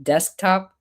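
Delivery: DESKTOP with the K fully sounded; careful full pronunciation. Shown as a demonstration. Another word they struggle with, careful pronunciation. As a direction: sound every consonant in "desktop". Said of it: "nobody says desktop".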